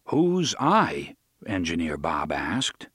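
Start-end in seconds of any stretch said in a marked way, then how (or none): 0.1-1.2 big stern voice. Acted. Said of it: "He spoke in his biggest, sternest voice".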